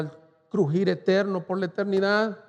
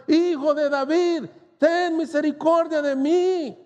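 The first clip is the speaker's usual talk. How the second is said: higher, stretched plea, pushing harder; crying out louder; 9 semitones higher than usual. Retold or imitated. Blind man calling over the rebuking crowd, louder plea. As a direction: call over the crowd trying to hush him. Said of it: "pero él gritaba mucho más".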